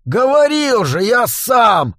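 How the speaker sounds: growled curse leaping up to a high shout; enraged outburst; angry growl. A narrator's reading. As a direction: growl it in fury, building to a shout. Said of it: "зарычал Джо".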